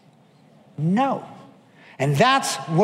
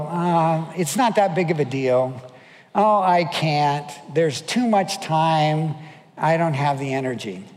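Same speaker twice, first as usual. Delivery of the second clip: drawn-out, hedging excuses; reluctant polite refusal. Retold or imitated. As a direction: wriggle out of it gently, slowly. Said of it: "say no in nicer words".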